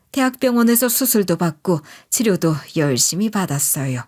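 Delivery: ordinary delivery, nothing marked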